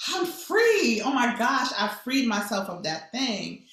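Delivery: high, loud cry of freedom, easing down; jubilant, starting high and settling; elated relief. Acted. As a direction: exclaim it like you've just been set free. Acting out her feeling of liberation.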